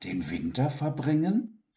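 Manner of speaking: high, expectant small voice; hopeful voice. Acted. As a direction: ask full of hope. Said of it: "mit erwartungsvoller Stimme".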